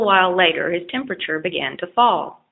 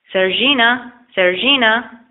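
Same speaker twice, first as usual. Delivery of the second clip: shouting again; 4 semitones higher, 4 dB louder than usual. A narrator's reading. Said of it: "he shouted again".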